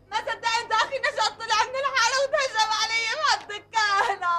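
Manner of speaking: high crying plea to the neighbors; wailing complaint. Acted. Woman crying to the neighbors about the attack. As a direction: wail to the whole street.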